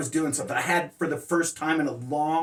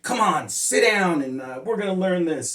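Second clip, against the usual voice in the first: mock annoyed; 3 semitones higher, 3 dB louder than usual. Impatient teacher to his student, annoyed. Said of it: "I would be mad".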